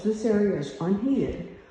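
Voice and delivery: breathless from climbing stairs; winded, panting between words; out of breath. Real, not acted. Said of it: "sorry, I'm out of breath".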